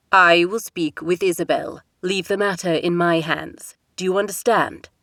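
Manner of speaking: lightly voiced king, firm; a father settling the matter; a hint of a stern king. King's voice held by narrator.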